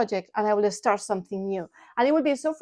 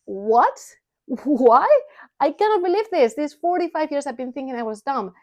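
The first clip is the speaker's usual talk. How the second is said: stunned disbelief; 3 semitones higher than usual. Retold or imitated. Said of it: "it was like".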